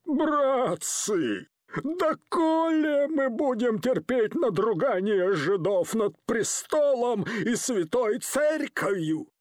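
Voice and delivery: a thug reciting a rehearsed lament to the crowd; trembling, tearful rant. Acted. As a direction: recite borrowed words with a fake sob. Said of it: "дрожащим, плачущим голосом чьи-то чужие заученные слова".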